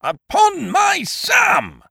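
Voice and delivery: slow, very high shout, every word thrown out; outraged bellow over the lost dogs; furious outburst. A narrator's reading. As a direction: roar it as the fist hits the table. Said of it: "brought his fist down with a crash on the table".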